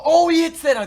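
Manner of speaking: sudden high, loud disbelieving cry; shocked outburst. Real, not acted. Gamer watching the rival's shot fall, shocked loud cry. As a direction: blurt it out in real shock as the shot drops. Opponent hits a clutch shot.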